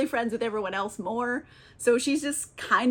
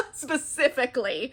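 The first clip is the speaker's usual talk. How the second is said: through laughter. Real, not acted. Still laughing at the buffoon grudge.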